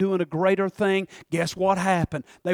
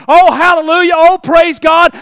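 mock praise; 9 semitones higher, 16 dB louder than usual. Mimicking church folk praising.

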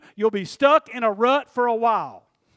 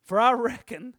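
southern reckon. Shown as a demonstration. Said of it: "I didn't know Paul was from down here".

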